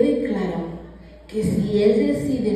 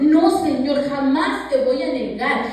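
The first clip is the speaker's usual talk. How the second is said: emphatic protest; 3 semitones higher than usual. Acted. Peter protests more strongly.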